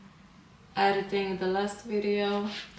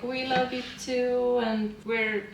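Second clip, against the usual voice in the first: lightly imitating friends' sweet reply, pitched higher; sweet reaction; 3 semitones higher than usual. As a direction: quote the friends with a touch of sweetness. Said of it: "their reaction was so sweet".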